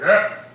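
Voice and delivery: put-on short, sudden old man's "Ah!"; imitated cranky old man's outburst; old man's grunt. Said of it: "this old man goes like".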